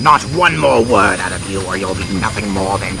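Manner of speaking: loud snarling threat; angry threat. Acted. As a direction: bark the warning. Threatening outburst.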